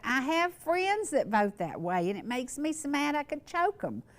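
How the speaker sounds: a mock-furious rant, words running hot; flustered anger. Friend complaining about voters who make him mad, flustered. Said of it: "he was flustered".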